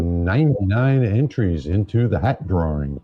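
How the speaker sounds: lightly played radio DJ with swooping intonation; late-night DJ voice. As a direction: announce it like a late-night disc jockey. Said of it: "using your late night D J voice".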